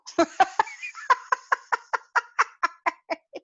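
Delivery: high bubbling laugh. Real, not acted. Host laughs at her own quip to viewers. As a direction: giggle at your own joke.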